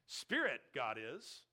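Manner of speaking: a playful hint of Yoda's reversed phrasing. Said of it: "here's my Yoda speech in Star Wars".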